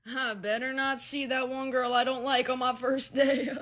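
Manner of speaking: slow, menacing mock warning; mock threat. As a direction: drag it out like a petty threat. Mocking a threat.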